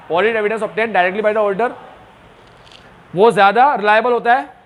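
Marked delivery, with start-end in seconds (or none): 0.1-1.7 very slow, word by word; slow dictation. Shown as a demonstration. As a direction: dictate it slowly for notes. Teacher dictating slowly. (धीरे-धीरे लिखवाना)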